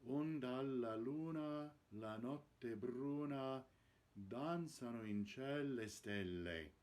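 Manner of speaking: "la" with a doubled L, then the line evenly; model recitation. Shown as a demonstration. Coach reading the fourth line to show the doubled L, careful model. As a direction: recite it clearly, leaning on the double L. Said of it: "double the L on the word la".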